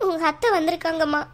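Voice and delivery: mildly tearful mother. Acted. Mother telling daughter of the aunt's arrival, mildly tearful. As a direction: break the news with a touch of weeping. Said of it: "ஏம்மா அழுறீங்க".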